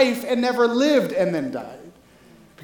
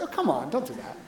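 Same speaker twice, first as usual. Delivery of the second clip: laughing mock protest; 9 semitones lower, 10 dB quieter than usual. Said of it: "It's like".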